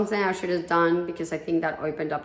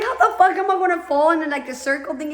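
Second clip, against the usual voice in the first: much higher and louder, disbelieving; incredulous outburst; 9 semitones higher, 4 dB louder than usual. Retold or imitated. To listeners, scoffing at the bowl story, high and loud. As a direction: blurt it out as if it makes no sense.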